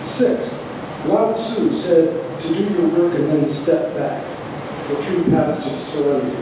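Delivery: measured, declaimed poetry reading with pauses between items; poem reading. Acted. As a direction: read it out like a numbered poem to an audience. Reads own poem aloud to audience.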